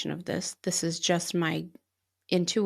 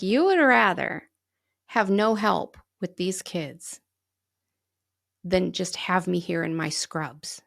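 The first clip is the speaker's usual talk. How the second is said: indignant protest; slower than usual. Retold or imitated. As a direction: spell out the injustice slowly. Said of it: "And I'm like".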